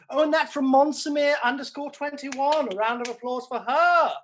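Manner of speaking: high, loud, sustained hailing; announcer-like acclaim. Acted. Host calls applause for a new viewer, loud acclaim. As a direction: proclaim it to a cheering crowd.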